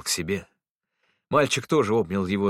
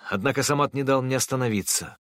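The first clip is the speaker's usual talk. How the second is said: plain reading voice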